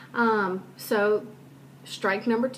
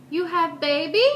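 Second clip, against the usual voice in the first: mock Asian accent, higher and louder; imitated Asian accent; 8 semitones higher, 6 dB louder than usual. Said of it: "am using the accent".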